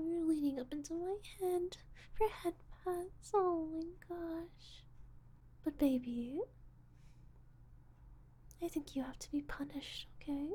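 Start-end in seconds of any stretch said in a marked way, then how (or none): none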